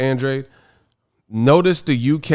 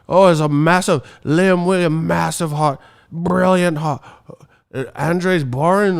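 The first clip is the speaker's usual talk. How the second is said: higher, hammed-up British accent; mock British fan; 4 semitones higher, 4 dB louder than usual. British fan praising Liam's heart, mock British accent. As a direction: parody gushing British praise. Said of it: "the British teeth be like".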